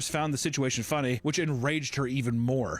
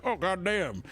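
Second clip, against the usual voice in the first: higher, hammed-up Midwest dad; Midwest husband; 5 semitones higher than usual. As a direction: play a thrilled Midwest husband. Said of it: "a Midwest couple being like".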